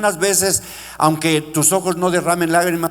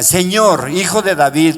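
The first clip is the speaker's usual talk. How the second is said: retold cry; 3 semitones higher, 4 dB louder than usual. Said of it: "y le grita cuando dice".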